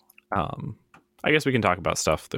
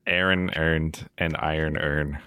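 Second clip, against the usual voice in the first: put-on Baltimore accent. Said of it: "Did you ever see the one, I think it's, uh, Baltimore?".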